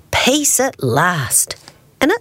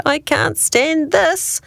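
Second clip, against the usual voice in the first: high, slow, drawn-out exasperation; exasperated bear; 11 semitones higher, slower than usual. A narrator's reading. Sleepless Mister Bear fed up with kitchen noises, exasperated. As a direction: stretch out the fed-up complaint.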